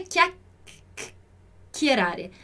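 "chiacchierare" with a long held stop before the second k; lengthened double C. Shown as a demonstration. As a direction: stretch out the double C in "chiacchierare", very slowly. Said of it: "alongar um pouquinho a pronúncia aqui". ("chiacchierare" bem devagar, alongando o duplo C)

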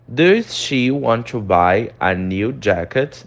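slow second reading; teacher repeating the example; slow model repeat. Shown as a demonstration. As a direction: repeat it slowly for the class.

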